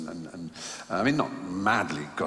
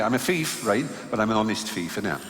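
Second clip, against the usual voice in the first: light West Country accent, imitating a fellow inmate; a hint of a West Country lad, playful. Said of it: "So they all spoke like that from the West Country".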